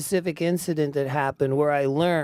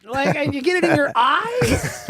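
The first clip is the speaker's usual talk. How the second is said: tag; 10 semitones higher, 4 dB louder than usual. Retold or imitated. Animated complaint about Tabasco in eyes.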